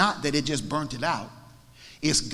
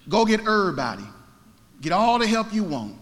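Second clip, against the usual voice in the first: raised, louder dare; acted challenge; 7 semitones higher, 5 dB louder than usual. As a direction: call out a bold challenge, voice lifted. Elijah challenges the rival prophets.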